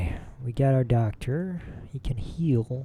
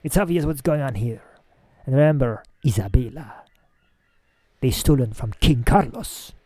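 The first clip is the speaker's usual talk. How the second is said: annoyed bark; 4 dB louder than usual. Acted. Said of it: "barks back, annoyed".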